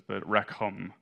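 rekhom said as rekh-OM with a throaty kh; careful try at the Hebrew rekhom, throaty kh in the middle; Hebrew word. Shown as a demonstration. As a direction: rekhom attempted with a rasped kh sound. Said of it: "I'm gonna butcher this".

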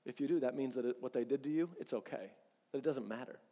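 whisper-close temptation, like the devil in your ear; sly devil speaking low and soft; tempting devil. Retold or imitated. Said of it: "the devil comes in and says".

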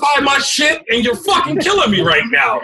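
high, hammed-up complaint at a friend; mock outrage. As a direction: whine like your savings just got wrecked. Mock outrage over losing stocks.

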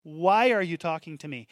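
lightly put-on New Jersey accent; a hint of a New Jersey woman challenging someone. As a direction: lay on a touch of New Jersey, leaning on the WHY. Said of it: "New, New Jersey accent when she".

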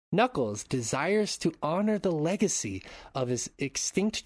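scripted synopsis read with swooping emphasis; story narration. Acted. Host recapping the Sonic film for listeners, dramatic narration.

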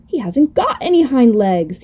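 mild call-out, drawn out. Acted. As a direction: announce it slowly to the others. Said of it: "he called out".

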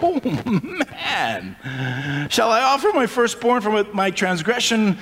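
lightly voiced people at their wits' end; a touch of mock exasperation; exasperated Israelites. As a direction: sigh it out, slowing toward the end. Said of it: "throwing their hands up in the air".

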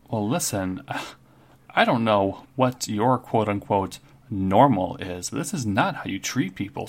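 emphatic, affronted telling-off; indignant scolding. Acted. Waitress telling off a dismissive customer, indignant.

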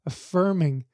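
fighting back tears as the words come; choked up. Real, not acted. Teacher recalling his daughter's rite of passage, choked up. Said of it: "I'm actually getting choked up".

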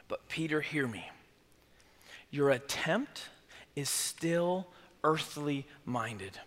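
soft, low and slow, leaning in; hushed earnest Jesus. Acted. Jesus quietly correcting Peter, low and slow. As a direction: draw him close and say it softly.

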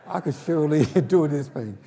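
chuckling as he retells it; laughing. Retold or imitated. Preacher laughing at his own stubbornness, laughing.

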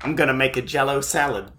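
lightly voiced fifties housewife; a hint of a chirpy homemaker; 1950s housewife. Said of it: "he was in the fifties too".

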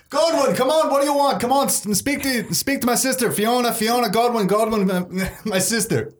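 high-pitched, pleading character voice; flustered brother. Acted. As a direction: urge them anxiously to address your sister. Voices brother urging visitor to speak.

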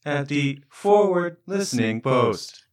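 slow PA announcement; calm loudspeaker warning; through a megaphone. Pretend. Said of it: "announcement sounds over the public loudspeaker".

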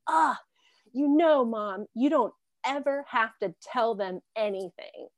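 exasperated sigh into a firm word to mom; mildly exasperated. Retold or imitated. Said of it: "she was just so exasperated".

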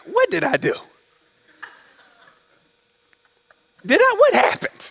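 high, stunned cry of disbelief; bewildered panic. Retold or imitated. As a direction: sound suddenly lost and alarmed. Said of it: "be like".

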